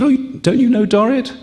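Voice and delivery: high, amazed squeal of disbelief; surprised. Retold or imitated. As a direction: gasp it out as if everyone knows her. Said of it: "She said".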